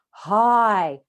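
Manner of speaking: loud, long "hi" with dropped jaw; open-throat resonance. Shown as a demonstration. Teacher repeats the breathing exercise, open resonant hi. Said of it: "Open throat breath, drop your jaw".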